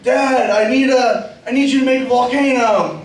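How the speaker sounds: a hint of a needy kid asking Dad; pleading kid. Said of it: "And they'll be like".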